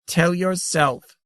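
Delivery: high, slow, tinkling tease. A narrator's reading. The grandmother teasingly refuses Saren, high, slow and tinkling. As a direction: drawl it out playfully. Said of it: "tinkled the grandmother".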